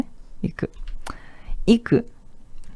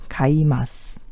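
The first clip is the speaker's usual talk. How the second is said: whisper; 4 semitones lower, slower than usual. Shown as a demonstration. Teacher whispers the verb while writing it down. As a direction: breathe Kaimasu out under the voice. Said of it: "Eu vou escrever tudo".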